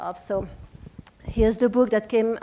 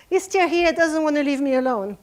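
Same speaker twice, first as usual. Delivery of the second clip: higher and louder, laughing through the words; 4 semitones higher, 4 dB louder than usual. Real, not acted. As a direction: giggle at her own stubborn accent. Laughs about her accent.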